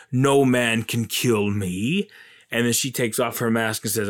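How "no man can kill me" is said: menacing Witch King. Retold or imitated. Witch King taunts Eowyn.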